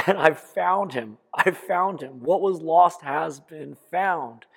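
mother's joyful discovery; joyful relief. Retold or imitated. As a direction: rejoice at finding the lost son. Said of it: "Certainly joy and elation".

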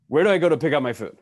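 rude, frustrated demand. Retold or imitated. Impatient hotel guest barking at the staff, loud and rude. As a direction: bark it at the waitress in frustration. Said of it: "rudely and frustratedly".

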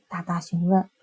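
ordinary delivery, nothing marked

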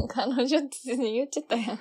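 teasing through laughter; laughing. Real, not acted. Teasing her cohost for saying girlfriend, laughing. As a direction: laugh at his slip as you point it out.

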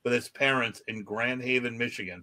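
measured article read-out; news story read aloud. Acted. Podcast host reads odd news to co-hosts, news read-out.

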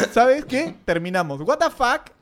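high, sudden dumping line; mock breakup line. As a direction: act out the shock of being dumped.

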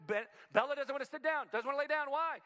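very high, loud, sing-song coaxing of the dog; high cooing voice. Retold or imitated. Pastor voicing the doting owner coaxing Bella, high sing-song coo.

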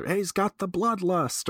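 half-hearted yell, pitched well up; mock enemy yell. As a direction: imitate a game enemy calling out in alarm. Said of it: "the enemies will yell".

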